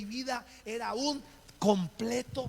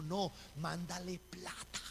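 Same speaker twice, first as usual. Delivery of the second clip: slow, softer imitated dream voice; voz del sueño; 2 semitones lower, 6 dB quieter than usual. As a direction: draw the command out slowly and quietly. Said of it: "escuchó la voz del sueño". (voz del sueño, lenta y suave)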